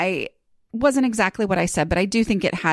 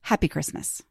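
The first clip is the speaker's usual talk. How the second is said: put-on understated second go at a British accent; softer, lower, lightly British; the host's British greeting; 3 semitones lower, 5 dB quieter than usual. Podcast host correcting her imitation of the guest, understated British phrasing. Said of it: "she wouldn't say it like that".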